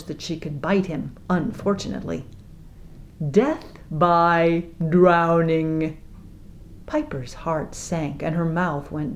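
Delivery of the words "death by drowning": very slow, savoring delivery; captain pronounces death; relishing verdict. Acted. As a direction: savor every word.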